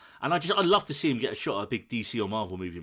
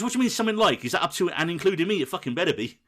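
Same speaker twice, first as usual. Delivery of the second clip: high and loud, mock outrage that fades by the last line; retold indignant outburst; 5 semitones higher, 4 dB louder, faster than usual. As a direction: ham up a boyfriend's jealous indignation. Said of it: "He goes".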